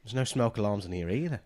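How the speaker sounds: put-on lightly done New Zealand accent; a failed New Zealand accent. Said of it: "Sorry, that was Australian".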